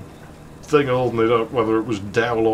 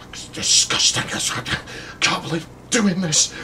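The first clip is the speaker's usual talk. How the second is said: hushed, slow grumble, half-whispered; muttered under breath; 6 semitones higher than usual. Retold or imitated. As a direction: mutter it to yourself in disgust. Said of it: "under her breath".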